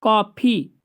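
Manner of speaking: कॉफ़ी with an open vowel between आ and ओ. Shown as a demonstration. Teacher showing the class how to say कॉफ़ी. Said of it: "उन दोनों के बीच वाले को बोलते हैं".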